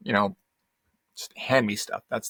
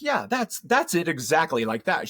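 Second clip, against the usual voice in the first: mock eager agreement; 5 semitones higher than usual. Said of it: "I'm like".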